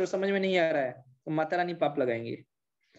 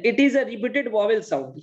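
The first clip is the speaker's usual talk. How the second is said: slow reading; 4 semitones higher, much slower than usual. Shown as a demonstration. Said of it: "अब देखो क्या बोलता है".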